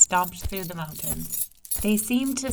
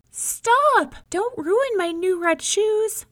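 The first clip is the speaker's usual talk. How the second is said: put-on much higher, loud child shout; girl shouting stop; 14 semitones higher, 6 dB louder, slower than usual. May May shouts at the tigress to save the mouse, loud and high. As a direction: cry out to stop her.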